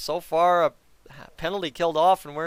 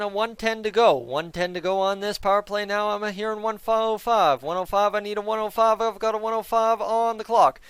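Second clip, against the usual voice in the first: auctioneer voice; 4 semitones higher than usual. Acted. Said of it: "that sounded like an auctioneer".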